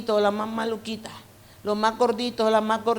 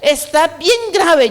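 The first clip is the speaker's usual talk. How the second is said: slow, higher, louder solemn verdict; doctor delivering grave news, slow and higher; doctor's grave warning; 6 semitones higher, 7 dB louder, slower than usual. Retold or imitated. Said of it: "el médico me dijo".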